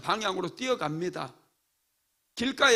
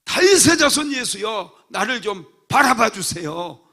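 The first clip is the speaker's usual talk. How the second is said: loud pleading cry; 3 semitones higher, 9 dB louder than usual. Acted. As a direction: shout from the front row for Jesus. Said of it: "소경 바디메오처럼".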